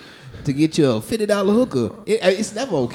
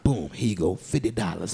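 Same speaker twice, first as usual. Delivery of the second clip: hushed hustler; 11 semitones lower, 8 dB quieter than usual. Retold or imitated. Pimp voice in the alley.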